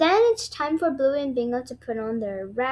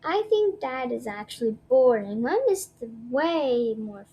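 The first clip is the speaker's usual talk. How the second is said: declaring; 3 dB louder than usual. Acted. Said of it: "declares Bluey".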